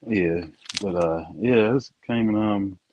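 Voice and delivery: muffled earbud mic, dull sound; like talking through a door. Real, not acted. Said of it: "next minute you sound like you muffled".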